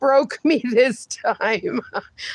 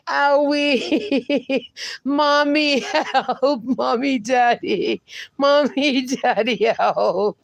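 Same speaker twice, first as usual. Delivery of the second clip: laughing mock plea; slower than usual. Real, not acted. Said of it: "Nine one one".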